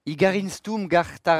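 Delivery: slow, made-up Latin incantation; mock Latin. Host interrupting the definition of stoicism, mock Latin. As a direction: recite fake Latin as if learned. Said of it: "C'est un, c'est du latin".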